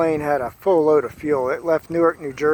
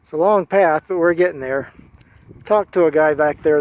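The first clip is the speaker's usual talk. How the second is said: muffled through a face mask; talking through a mask; 3 semitones higher, 6 dB louder than usual. Real, not acted. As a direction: speak through a covering mask. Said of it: "I'm talking through a mask".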